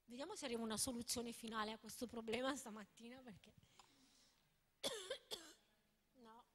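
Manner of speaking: talking with candy in mouth; mouth full. Real, not acted. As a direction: speak around a candy in the mouth. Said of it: "con la caramella in bocca".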